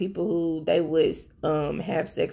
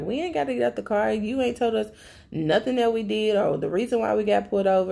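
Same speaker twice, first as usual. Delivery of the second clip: higher-pitched retold back talk; mock defiance; 4 semitones higher, faster than usual. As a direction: imitate someone arguing back at the cops. Acting out defiant passengers arguing with cops.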